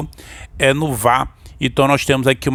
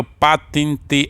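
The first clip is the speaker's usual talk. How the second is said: "patentear" slowly, final AR held very long; stress on final syllable; much slower than usual. Shown as a demonstration. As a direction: split "patentear" and draw out the last A. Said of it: "Nós vamos ter uma palavra oxítona". ("patentear" devagar, com o A final bem alongado)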